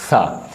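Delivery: सा with the tongue tip at the front teeth; letter demo. Shown as a demonstration. Teacher showing students how to say सा. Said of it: "ज़ुबान की नोक और सामने वाले दो दांत".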